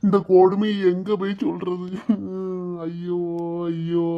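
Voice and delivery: tearful wailing. Acted. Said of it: "இப்படி அழுதுட்டு கிடக்காரு". (அழுது புலம்பல்)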